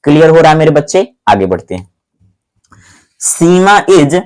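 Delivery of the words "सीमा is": slow dictation. Shown as a demonstration. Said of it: "new example sentence read out".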